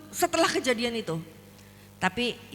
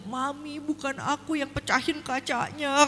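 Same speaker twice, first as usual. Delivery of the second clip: put-on sobbing plea; imitated crying; 3 semitones higher than usual. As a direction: wail it lightly like a tearful child calling mother. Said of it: "terus dia nangis gini".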